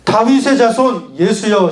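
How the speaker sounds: slow, measured line for repeating; call-and-repeat demo. Shown as a demonstration. Preacher models the cry for children to repeat, slow and measured. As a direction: model it slowly for the group. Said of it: "자, 한번 따라해 볼까요".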